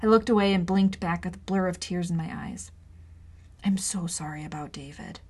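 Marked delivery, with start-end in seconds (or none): 3.6-5.2 soft, unvoiced whisper; gentle whisper. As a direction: whisper the apology. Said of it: "he whispered".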